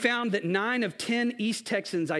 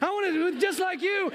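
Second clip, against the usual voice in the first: put-on Samoan accent; 11 semitones higher than usual. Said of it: "That's my Samoan accent".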